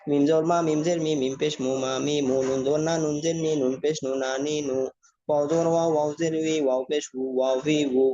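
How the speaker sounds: rhythmic, even-toned letter-by-letter spelling drill; recitation drill. Shown as a demonstration. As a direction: chant out the letters evenly for learners to follow. Combined vowel spelling drill.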